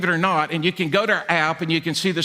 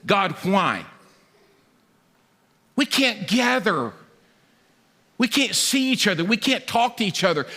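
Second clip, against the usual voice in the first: inner lament; 2 semitones higher than usual. Retold or imitated. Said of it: "I was saying in my mind".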